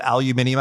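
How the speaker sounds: ALUMINIUM in five syllables, "al-you-MIN-ee-um"; British pronunciation. Shown as a demonstration. Citing a British word form.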